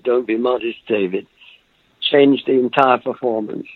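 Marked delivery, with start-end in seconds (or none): 0.0-1.3 softly quoting the director, a touch quieter. Retold or imitated. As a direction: say it gently, almost under your breath. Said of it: "very quietly said".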